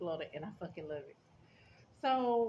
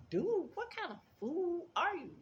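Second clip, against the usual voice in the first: much higher, mocking disbelief; incredulous outburst; 11 semitones higher than usual. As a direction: shriek it like you can't believe him. Reacting to trash chute story.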